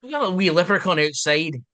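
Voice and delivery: hammed-up Irish brogue; a playful stab at a leprechaun lilt; jokey Irish accent; mock Irish accent. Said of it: "This one's good".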